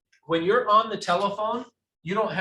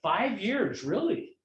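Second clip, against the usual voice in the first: interested surprise; 3 semitones higher, slower than usual. Shown as a demonstration. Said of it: "watch what I did".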